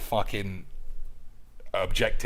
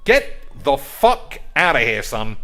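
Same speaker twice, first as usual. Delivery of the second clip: mock dismissal; 3 semitones higher, 8 dB louder than usual. Voicing manager dismissing player.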